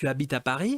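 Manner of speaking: pitch climbs in a rising tune on Paris. Teaching French question intonation with an example: rising question intonation. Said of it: "Aí vai subindo, hein, a entonação".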